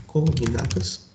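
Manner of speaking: "Cognatas" drawn out slowly as a key word; slow key term. Shown as a demonstration. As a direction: stretch "Cognatas" for the class. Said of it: "As cognatas são".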